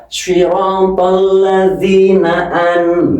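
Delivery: slow swirotol with heavy rounded shod; correct shod. Shown as a demonstration. Teacher models slow correct swirotol. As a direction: draw out swirotol ladzina from the shod. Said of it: "Ini hurufnya shod".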